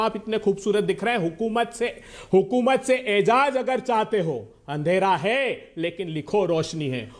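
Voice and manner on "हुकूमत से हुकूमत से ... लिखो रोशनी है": poetry recital. Real, not acted. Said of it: "एक पंक्ति आपके लिए कहना चाहता हूं".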